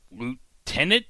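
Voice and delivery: high, slow, puzzled question; stunned by the twist at the end; surprised. Real, not acted. Recapping the ending reveal to viewers, slow high astonishment.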